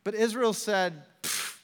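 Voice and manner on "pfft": dismissive puff of air; scornful pfft. Acted. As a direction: blow it off with a pfft. Israel scoffs at the water.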